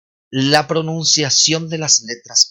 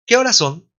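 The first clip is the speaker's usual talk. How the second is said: ¿Qué horas son? said high and loud from the start, falling after horas; Spanish question tune; 8 semitones higher, 4 dB louder than usual. Shown as a demonstration. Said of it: "está siempre la tonalidad de pregunta".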